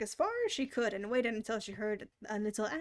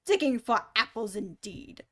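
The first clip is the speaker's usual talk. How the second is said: angry; 6 dB louder than usual. Acted. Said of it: "said the rabbit angrily".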